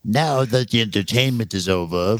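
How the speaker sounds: villain voice. Retold or imitated. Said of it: "Lo Pan should have said".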